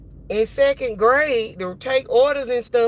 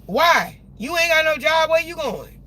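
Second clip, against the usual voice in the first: mock retort; 7 semitones higher, 6 dB louder than usual. Imagined retort, other driver.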